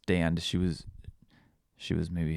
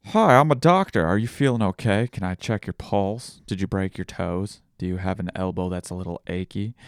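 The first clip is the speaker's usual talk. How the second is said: playful pretend doctor; 5 dB louder than usual. Dad playing doctor for his little girl, lightly put-on cheer. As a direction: greet a child as a make-believe doctor.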